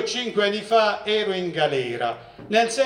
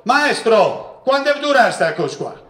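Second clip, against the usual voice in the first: brash, raised-pitch mock call to the teacher; retold shout; 4 semitones higher, 4 dB louder than usual. Cocky inmate interrupts the lecturer, retold shout. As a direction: call out cockily, imitating a heckler. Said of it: "si alzò e gridò".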